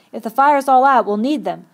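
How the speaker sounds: loud, urgent explanation; shouted. A narrator's reading. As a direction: shout it out, easing at the end. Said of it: "shouted Ralph".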